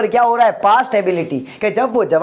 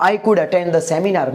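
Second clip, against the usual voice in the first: slow, careful English sentence; slow model sentence; 3 semitones lower, much slower than usual. Shown as a demonstration. Teacher models the English sentence slowly for students. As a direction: say each word slowly for the class to copy. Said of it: "तो यहाँ पर क्या हो गया?".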